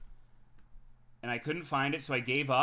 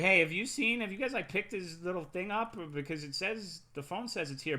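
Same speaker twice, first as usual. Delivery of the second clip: mock accusing wife; 8 semitones higher than usual. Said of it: "and was like".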